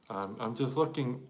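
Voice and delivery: stammering, repeating the start; stuttering. Real, not acted. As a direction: trip over the first word. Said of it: "why I'm sort of stuttering right there".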